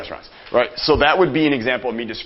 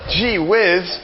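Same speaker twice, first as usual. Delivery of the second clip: mock American accent; 8 semitones higher, 4 dB louder than usual.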